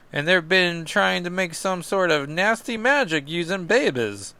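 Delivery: light mock Kentuckian accent. Sam describing the demons' plans to Cap, in a light mock Kentuckian accent. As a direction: lightly keep up a Kentuckian lilt. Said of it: "Kentuckian accent?".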